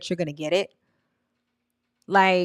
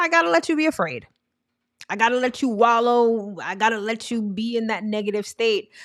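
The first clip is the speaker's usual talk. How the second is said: the universe speaking; 3 semitones higher than usual. Pretend. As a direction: play the universe, eager to help. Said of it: "Universe is like".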